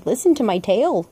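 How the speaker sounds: lightly voiced storyteller with swooping pitch; a half-hearted attempt at a cartoon character's catchphrase; horrible character impression. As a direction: swoop up and down, badly faked character voice. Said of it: "That was a horrible impression".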